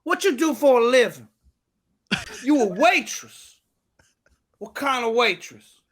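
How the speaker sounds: exaggerated comic host impersonation; Steve Harvey. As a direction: ask it drawn out and incredulous. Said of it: "Steve Harvey".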